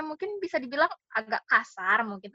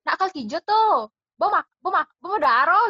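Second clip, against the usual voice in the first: lilting Balinese intonation, pitched up; demonstrating everyday Balinese with a raised lilt; Balinese speech demo; 4 semitones higher than usual. Shown as a demonstration. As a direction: say it like a Balinese local, voice lifting. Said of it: "kalau bahasa Bali tuh kayak gini".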